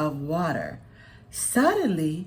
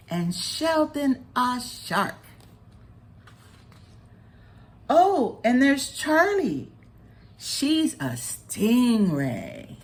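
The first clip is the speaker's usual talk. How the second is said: lightly voiced mermaid, lively and fond; cheerful mermaid; 3 semitones higher than usual. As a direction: list friends with delight. Rosa describes sea friends.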